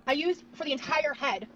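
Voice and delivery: words pushed out on a slow burp. Real, not acted. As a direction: talk through a long burp. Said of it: "is that a burp?".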